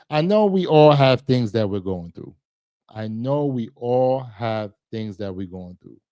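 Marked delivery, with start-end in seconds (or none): 0.1-2.4 louder, pressing the point; emphatic plea. Real, not acted. To viewers urging them to check on family, louder plea. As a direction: lean in and insist. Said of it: "repeated line, first take".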